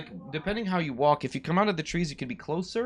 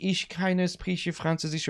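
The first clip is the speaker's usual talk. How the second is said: retold Swiss woman's German; 5 dB quieter, slower than usual. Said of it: "she looks at me like".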